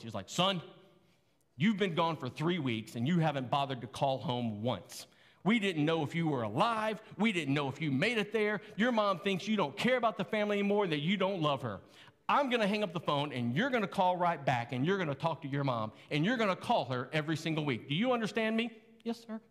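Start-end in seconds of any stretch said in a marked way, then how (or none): 0.3-18.7 lightly voiced stern dad; Jerry Evans. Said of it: "I'm giving my best Jerry Evans voice". 19.0-19.4 small, high, soft voice; meek reply. Retold or imitated. Retells meek answer to scolding dad.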